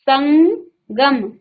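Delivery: drawn out slowly; teacher's slow demo of संगम; slow model reading. Shown as a demonstration. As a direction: stretch each sound for them. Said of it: "संग कैसे पढ़ क्या रहे हैं".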